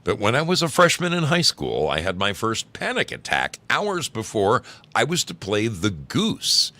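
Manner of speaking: lively, projected storytelling voice; animated story reading. A narrator's reading. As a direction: read the embarrassing tale aloud with bounce. Starts reading another story aloud.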